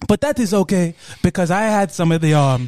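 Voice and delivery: cheerful, put-on African accent; comic African accent, untroubled. Pickle seller finding the upside, African accent. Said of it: "doing that accent".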